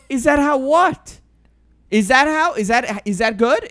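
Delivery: a confused woman asked by a stranger, puzzled and high; imitating a confused partygoer. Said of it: "And she goes".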